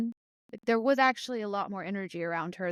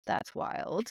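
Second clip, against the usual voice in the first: whispered aside; 5 dB quieter than usual. Real, not acted. Aside on CNN numbers.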